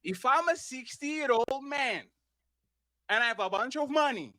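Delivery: slow, deliberate spelling-out. Shown as a demonstration. Repeating the question for a dodging debate opponent, very slowly. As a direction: say it slowly, piece by piece with pauses. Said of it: "I'm going to repeat it very slowly".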